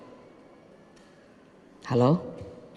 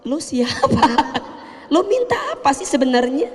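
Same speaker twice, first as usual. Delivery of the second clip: mocking boss; 7 semitones higher than usual. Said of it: "kata bosnya".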